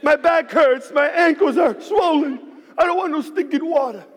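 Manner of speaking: mock irritation at the cheerleader; grumpy snap. Worn-out runner snapping at his cheering son, fed-up and loud. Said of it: "I'm like".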